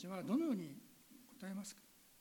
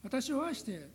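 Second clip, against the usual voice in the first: prayer. Real, not acted. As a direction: pray to the Father with fervent conviction. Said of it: "お祈りをさせていただきます".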